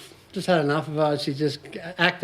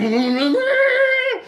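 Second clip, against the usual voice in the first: mock screech; 4 dB louder than usual. Car pulls away just in time.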